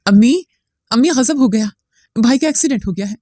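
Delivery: high, frightened cry for mother; alarmed call that fades at the end; panicked screaming. Acted. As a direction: shout the bad news in panic, pitch up. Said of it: "वो जोर जोर से चीखने लगी".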